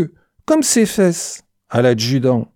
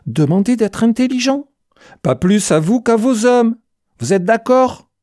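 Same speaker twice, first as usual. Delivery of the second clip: enraged; 7 semitones higher than usual. A narrator's reading. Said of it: "il était fou de rage".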